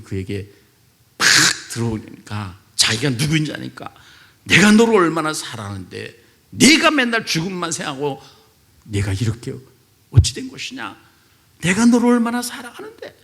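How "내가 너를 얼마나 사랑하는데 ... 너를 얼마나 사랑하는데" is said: voice of the Lord. Retold or imitated. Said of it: "이 주님의 말씀에".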